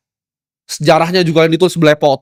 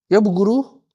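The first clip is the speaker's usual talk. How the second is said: high, sing-song yes to the teacher; mock obedient pupil; 5 semitones higher, slower than usual. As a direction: parrot it like a meek pupil. (murid penurut menjawab guru)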